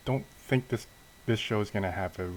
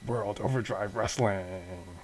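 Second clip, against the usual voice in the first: slow, stretched show-title call; slower than usual. Acted. Upbeat wrestling intro theme, drawn-out title call. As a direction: draw out the title like an intro announcer.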